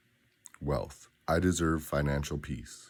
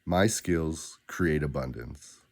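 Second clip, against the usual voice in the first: deliberate, slower and clearly spaced; slower than usual. Shown as a demonstration. Coach models the affirmation for the listener, slow and clear. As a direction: set each word down clearly. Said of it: "Say it clearly".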